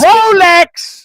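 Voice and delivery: loud, high shout; shouted answer. Real, not acted. Co-host blurting the meaning of life, shouted.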